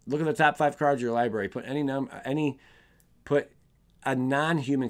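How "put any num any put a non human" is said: stumbling and restarting words; stuttering. Real, not acted. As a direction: trip over the words, restart. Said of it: "Sorry, I'm stuttering today".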